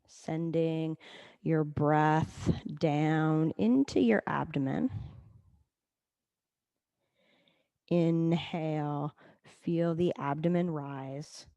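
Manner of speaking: calm, level guiding voice with long pauses; guided meditation. Acted. Leads breathing meditation.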